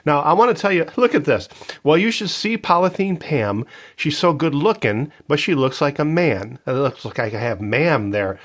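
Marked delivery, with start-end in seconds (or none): 1.8-6.6 put-on reading old lyrics. Shown as a demonstration. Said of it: "I want to read some of these lyrics to you".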